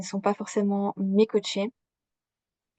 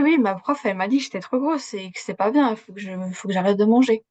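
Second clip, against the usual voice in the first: voix d'enfant plus aiguë, légèrement imitée; petite fille naïve imitée; 3 dB louder than usual. Retold or imitated. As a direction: rejouer la petite fille qui répète la prof, un peu plus haut. Enfant rapporte les mots de prof. (la narratrice imite son moi enfant devant ses parents, voix plus aiguë)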